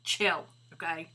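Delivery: put-on lightly done slow Valley Girl accent; a hint of Valley Girl, drawn out and bored. Voicing the dog Maddie telling Scooby off, mild Valley Girl accent. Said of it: "in her Valley Girl accent".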